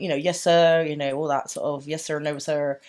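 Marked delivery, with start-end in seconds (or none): 0.2-0.8 lightly imitated polite Southern accent; Southern accent slipping towards Cornish. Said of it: "He's that sort of southern". 1.9-2.8 put-on softer, botched Southern accent; bad imitation of a respectful Southerner's accent; Southern accent gone Cornish. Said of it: "I sounded, like, Cornish then for a bit".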